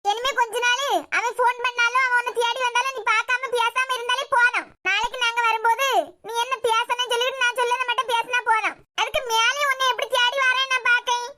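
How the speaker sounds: pressing, threatening instructions; stern warning. Acted. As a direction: lay down the law to her. Mother orders her to avoid him.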